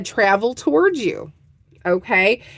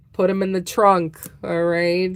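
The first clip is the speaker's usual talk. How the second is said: mock Godfather; 3 semitones lower than usual. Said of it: "the Godfather".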